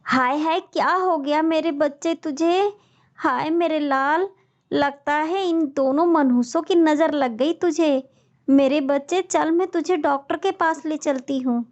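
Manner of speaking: high, frantic worried wailing; panicked mother. Acted. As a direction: fret over the sick son. Mother panics over son.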